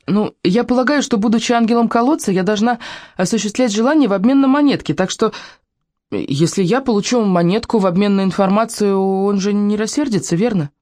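put-on high girlish reasoning; bargaining girl. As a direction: propose a deal in a child's careful voice.

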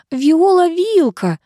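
high, slow drawl on «Виола Вилка»; drawn out. A narrator's reading. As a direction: stretch «Виола» out in wonder. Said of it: "протянула официантка". (официантка протяжно удивляется)

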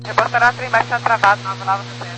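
thin radio voice over static; like a distant cockpit transmission; sci fi communicator. Real, not acted. Pilot over crackly radio.

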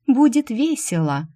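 put-on high, loud child's voice that slows down at the end; luring child's call. Twin children lure Shu to play, high enticing call. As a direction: call her sweetly to come and play. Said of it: "манили переливами прозрачных ручьёв".

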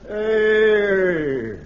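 ordinary talk

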